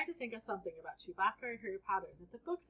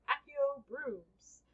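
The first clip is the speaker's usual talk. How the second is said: slow, drawn-out spell call; shouted spell; 5 semitones higher, 4 dB louder, much slower than usual. Acted. Harry summoning the brooms, a slow mock shout. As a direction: cast it slowly and loudly. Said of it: "He lifted his hand and shouted".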